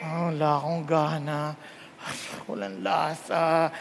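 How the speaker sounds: sick, no appetite. Acted. Sick person voiced in sermon.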